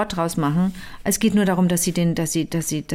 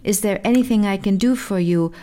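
put-on Irish accent. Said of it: "Das musst du dir jetzt irisch vorstellen".

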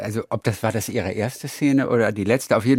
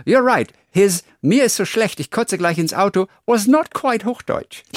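much higher, slowing down, amused; mock forum voice; 9 semitones higher than usual. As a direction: read it out like a smug commenter, teasing. Liest Forumskommentar spöttisch vor. (spöttisch vorgelesener Kommentar, viel höher)

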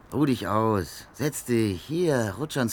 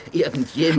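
a sneering rising echo, louder and higher; mocking echo; 6 semitones higher, 7 dB louder than usual. Man mockingly repeats "Irgendjemand" after a laugh. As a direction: throw the word back with a smirk.

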